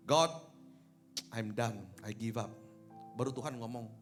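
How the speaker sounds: ordinary delivery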